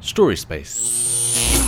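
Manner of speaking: low, slow whispered echo. Acted. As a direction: breathe it out like an echo. Echo after launch.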